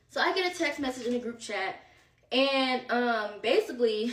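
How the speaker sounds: breathless, catching air between words; out of breath. Real, not acted. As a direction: talk while still out of breath. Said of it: "I'm out of breath".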